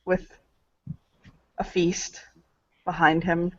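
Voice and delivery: whispering. Acted. Whispered aside in narration.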